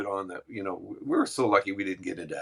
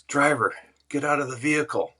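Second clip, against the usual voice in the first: cop on loudspeaker; 6 semitones higher, 4 dB louder than usual. Retold or imitated. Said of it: "gets on his speaker".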